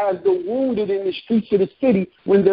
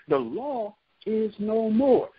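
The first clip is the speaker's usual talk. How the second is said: slow, drawn out; 5 dB quieter, slower than usual. Shown as a demonstration. Preacher slowing the line down for emphasis. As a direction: stretch every word of it.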